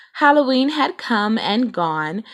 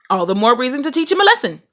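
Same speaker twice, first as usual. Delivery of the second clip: fired up; 5 semitones higher, 4 dB louder, faster than usual. Acted. Papa fired up about contest.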